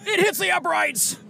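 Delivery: high, drawn-out play-by-play cry; mock sports announcer. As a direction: call the shot like a buzzer-beater. Mock sports commentator call.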